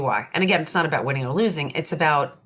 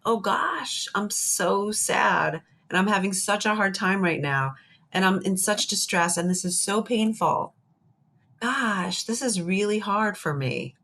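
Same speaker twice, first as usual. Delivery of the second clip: mock sad self-talk. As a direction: voice a hurting self gently, not in earnest. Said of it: "And I'll be like".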